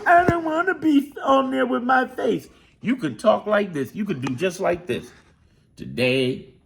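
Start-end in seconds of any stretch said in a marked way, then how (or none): 0.0-2.5 high, timid voice of a camera-shy viewer. Retold or imitated. Voicing a viewer who won't show her face, high and timid. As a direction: whine it like someone hiding from the camera. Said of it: "one of those people".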